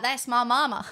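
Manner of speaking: a hint of a put-on American accent, laughing; laughing through a light American twang; mock American accent. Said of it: "I'm gonna whip out this accent and be like".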